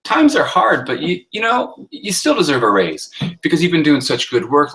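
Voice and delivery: high and loud opening, "Times are hard" lifted; boss voicing a turned-around sentence. Shown as a demonstration. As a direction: start high and bright, then reassure about the raise. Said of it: "Turn it around".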